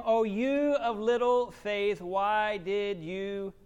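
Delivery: slow, tender, fading to a hush on "doubt"; gentle rebuke. Retold or imitated. Jesus to Peter, slow and tender.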